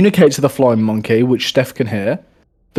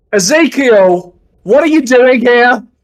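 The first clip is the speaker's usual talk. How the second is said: very high, all-out, top-of-lungs shout; 10 semitones higher, 5 dB louder than usual. In a tabletop game, a character calls out to another, shouting at the top of lungs. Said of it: "you shout this at the top of your lungs".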